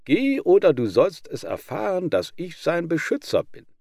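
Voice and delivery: high, loud warning; threat. Acted. Hylax threatening Lykodes to protect the lamb. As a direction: drive him off with a threat. Guard dog threatens rival dog.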